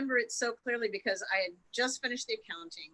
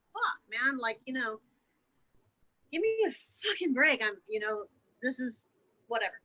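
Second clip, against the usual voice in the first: retold anger; 4 semitones higher than usual. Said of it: "part of me was angry".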